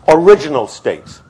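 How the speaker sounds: "original states" punched loud after a pause; emphatic point. Shown as a demonstration. Lecturer making a point to his class, "original states" stressed. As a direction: hit "original states" hard, standing alone. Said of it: "I want to make the point".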